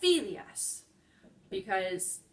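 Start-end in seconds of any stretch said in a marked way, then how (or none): 0.0-0.8 Phidias said FI-dias, high first syllable then falling; stress on penultimate syllable. Shown as a demonstration. Teacher restating the correct form, stress on FI in Phidias. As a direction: hit the opening syllable of Phidias. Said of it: "put the stress on the penultimate".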